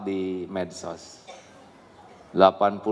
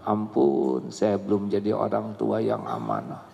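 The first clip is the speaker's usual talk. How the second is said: humble prayer; 3 semitones lower than usual. Acted. Parent repenting in prayer.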